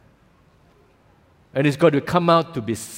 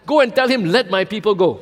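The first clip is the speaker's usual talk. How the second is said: commanding voice of God; 7 semitones higher, 4 dB louder than usual. Retold or imitated.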